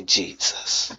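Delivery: a hushed, intimate whisper, no force at all; whispered name. Shown as a demonstration. Preacher showing the congregation how to call on Jesus, whispered. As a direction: breathe the name in a soft whisper. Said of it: "You don't have to scream it out".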